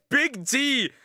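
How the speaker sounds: high, loud call of the name; echoing shout. Retold or imitated. Echoing the cartoon, he shouts the name loud and high. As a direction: yell it like the clip does.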